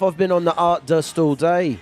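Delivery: mock working-class Scouse; Liverpool accent. English co-writer confesses to partner, in Liverpool accent. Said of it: "working class guy from Liverpool".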